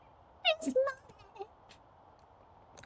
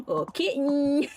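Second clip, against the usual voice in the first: mock seductive; 5 semitones higher than usual. Mock seductive talk to kitten.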